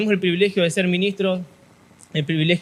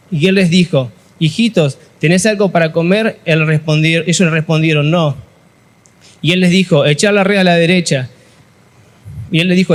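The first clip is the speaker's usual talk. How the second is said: measured, slightly louder Bible reading; scripture reading; 4 dB louder than usual. Acted. Pastor reads John twenty-one to youth, formal reading. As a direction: read the passage steadily to the congregation.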